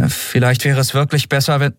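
trying to hand back the wheel; pleading captain. Acted. Endriel pleads.

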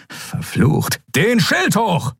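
cursed, then a high slow shout; angry order. Acted.

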